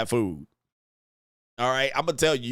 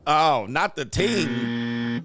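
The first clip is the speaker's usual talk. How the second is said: mock Jamaican accent; 2 semitones lower, much slower than usual. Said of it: "Man, I gotta speak like this".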